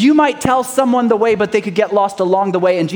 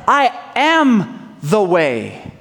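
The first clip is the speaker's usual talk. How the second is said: slow solemn claim; much slower than usual. Acted. Preacher quoting Jesus to the congregation, slow and solemn. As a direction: let it land slowly as Jesus. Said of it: "He said".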